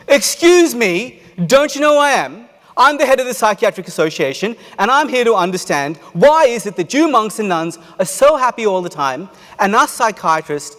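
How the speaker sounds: furious shouting demand, high and loud; loudest voice. Retold or imitated. Psychiatrist yelling at the silent monk, angry shout. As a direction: yell it, outraged at being ignored. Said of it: "in his loudest voice".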